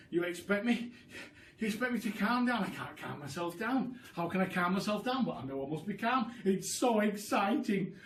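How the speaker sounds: fast, breathless excitement; can't sit still, words racing; overexcited. Acted. Mister Cranky protesting he can't calm down, fast and excited.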